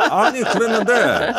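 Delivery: loud, high protest through real laughter; laughing protest. Real, not acted. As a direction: burst out laughing, then stretch the objection. Laughs while protesting the teasing. (웃음 터뜨리며 크게 항변)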